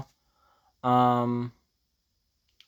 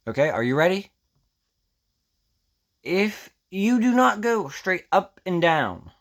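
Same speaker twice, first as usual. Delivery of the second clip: clickbait video narrator; 4 semitones higher than usual. Acted. Hyping up the nib trick.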